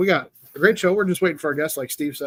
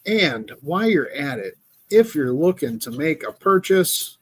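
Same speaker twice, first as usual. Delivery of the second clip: commercial voice. Shown as a demonstration. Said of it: "that's my commercial voice".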